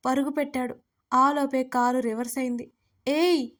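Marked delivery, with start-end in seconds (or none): 3.1-3.5 mild urgent shout; a short, contained "hey" of a yell; narrated yell. A narrator's reading. Agastya runs after the car, yelling in a restrained way. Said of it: "Agastya అరుస్తూ".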